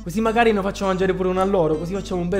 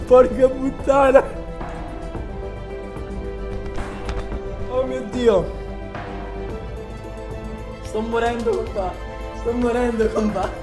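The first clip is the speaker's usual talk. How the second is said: gasping through chili burn; talking with a burning mouth; mouth burning from spicy food; 4 dB quieter than usual. Real, not acted. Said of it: "Ah, brucia!". (bocca in fiamme dal peperoncino)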